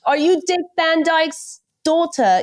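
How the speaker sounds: high-pitched imitation of teasing critics; mock incredulous question. Imitating British people teasing her accent.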